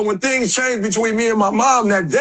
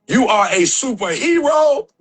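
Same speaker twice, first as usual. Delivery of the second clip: emphatic declaration; 3 semitones higher, slower than usual. Real, not acted. Speaker declares to the audience.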